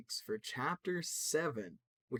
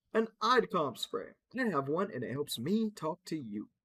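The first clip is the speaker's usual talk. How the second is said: high, loud and slow; childlike explainer; 4 semitones higher, 6 dB louder than usual. Acted. Explaining the spray to the team, high and slow. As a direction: explain it sweetly like a small child.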